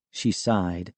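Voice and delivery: ordinary delivery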